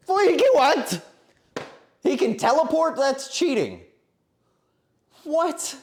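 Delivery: high, loud disbelieving outburst; shocked outrage. Real, not acted. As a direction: yelp in mock indignation. Shocked that Lucky teleports.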